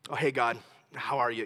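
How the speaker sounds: low, offhand hello; mock casual greeting. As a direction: greet God like a casual buddy. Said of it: "Do you think he goes".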